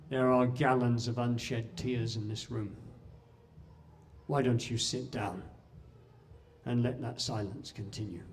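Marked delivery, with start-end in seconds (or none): 4.2-8.2 softer, gentle echo of the call; soft musing repeat; quiet retelling. Retold or imitated. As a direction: say it quietly, reflective. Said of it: "a voice rang out".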